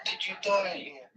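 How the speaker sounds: softly spoken voiced question; hushed, careful, still voiced; talking to a ghost. Real, not acted. Asking spirits, ghost hunt.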